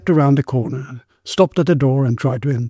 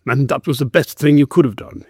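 growled. Acted. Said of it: "he growled".

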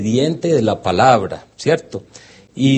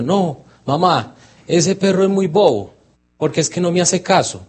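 higher, a lightly voiced grumpy little boy; upset child; 6 semitones higher than usual. A sulking boy complains to his mother about the dog.

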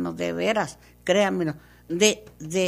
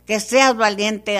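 louder insistence; 5 dB louder, slower than usual. Acted. Same command repeated, louder.

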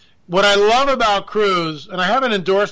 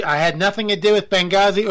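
"I had nothing to do with Benghazi" in a barely changed voice; a first, flat try at Hillary; failed Hillary. Shown as a demonstration. Host attempting a Hillary impression, failed first try. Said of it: "Oop, wrong accent".

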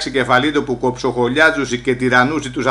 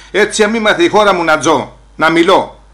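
proud loud declaration; 2 semitones higher, 6 dB louder than usual. Retold or imitated.

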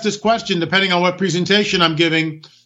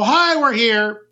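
mock migrant; 4 semitones higher than usual. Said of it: "and just go".

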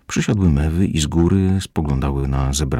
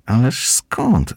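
laughing; 8 semitones higher, much slower than usual. Acted. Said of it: "zaśmiał się Rysio".

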